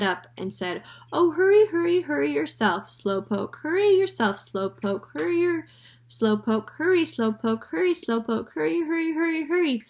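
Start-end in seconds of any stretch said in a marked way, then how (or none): 1.1-2.9 high, loud squawky mimicry; parrot mocking. A narrator's reading. 2.9-9.8 parrot mocking. A narrator's reading.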